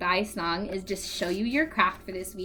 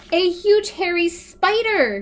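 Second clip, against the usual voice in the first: louder, higher scared cry; frightened stammer; 8 semitones higher, 8 dB louder, slower than usual. Acted. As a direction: blurt it out in fright. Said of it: "George stammered".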